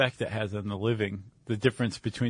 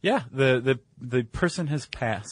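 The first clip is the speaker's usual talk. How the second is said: incongruously cheery announcement. Real, not acted. Co-host announcing a death, sounding cheery. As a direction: announce it a touch too brightly. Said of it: "You just sounded very cheery".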